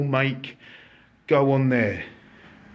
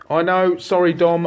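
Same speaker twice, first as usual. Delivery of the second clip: excited; 5 semitones higher, 6 dB louder than usual. Real, not acted. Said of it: "I'm getting excited again".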